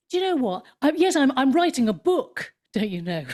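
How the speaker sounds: high, emphatic self-mocking proclamation; hammed-up announcing, pitched well up; mock announcement. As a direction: re-enact a bold declaration with tongue in cheek. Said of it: "then, then said".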